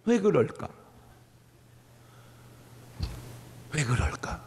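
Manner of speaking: measured, curious self-questioning; calm wondering. Acted. Calm alternative to scolding child.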